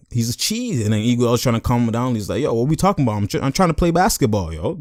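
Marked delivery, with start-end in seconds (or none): 2.4-4.8 higher-pitched mock complaint; Iguodala protesting. Iguodala trying to calm him down, baffled protest.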